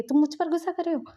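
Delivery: high, fast indignant retort; Madam Lan retorts, offended and fast. Retold or imitated. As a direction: fire it back, offended. Mother indignant.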